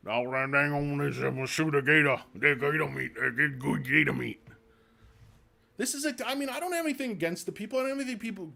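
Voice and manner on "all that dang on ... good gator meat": mock Cajun hunter. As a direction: play a gator-hungry swamp hunter, half in jest. Mocking a bayou gator hunter.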